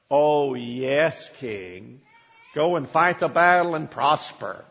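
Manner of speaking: mock agreement, dripping with sarcasm; sarcastic. Micaiah mocking the king's wish for good news, sarcastic. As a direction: say yes while meaning no. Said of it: "in such a sarcastic way".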